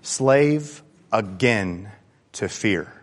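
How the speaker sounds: slave again to fear, drawn out softly; slow emphasis. Shown as a demonstration. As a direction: linger on each word quietly. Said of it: "these words meant something to me".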